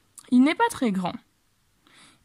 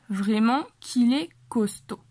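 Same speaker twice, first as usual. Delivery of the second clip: slower, every word clear; slow repeat. Shown as a demonstration. Teacher slowly repeating the line for students. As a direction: spell it out slowly for learners. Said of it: "De verdad que fuerte es".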